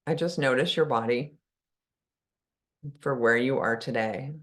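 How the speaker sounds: unhurried guidance with long pauses between phrases; calm meditation guide, phrase by phrase; guided meditation. Real, not acted. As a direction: ease listeners into stillness, leaving long silences. Leads a meditation.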